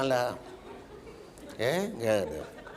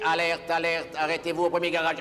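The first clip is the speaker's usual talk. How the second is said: calm robot. Retold or imitated. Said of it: "les robots qui continuaient sans s'énerver".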